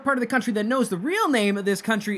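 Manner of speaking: high, excitable soldier voice; scrawny twin soldier. Acted. Twin soldier correcting the country's name, high insistent voice. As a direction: pipe up high as an eager twin. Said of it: "in the exact same voice".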